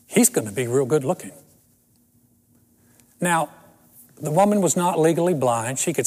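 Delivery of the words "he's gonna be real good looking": understated, earnest retold compliment; very sincere. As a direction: imitate a cousin's sincere remark, set apart by a pause. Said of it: "very sincerely, she said".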